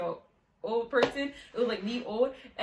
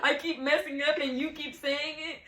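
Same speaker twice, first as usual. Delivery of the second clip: laughing complaint; 5 semitones higher than usual. Real, not acted. At her friend after the name slip, laughing.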